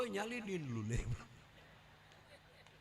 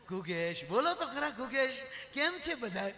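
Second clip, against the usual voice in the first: mother-in-law on phone; 4 semitones higher, 4 dB louder than usual. Retold or imitated. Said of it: "હાહુને phone કર્યો".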